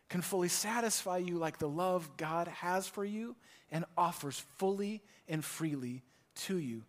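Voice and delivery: ordinary talk, nothing marked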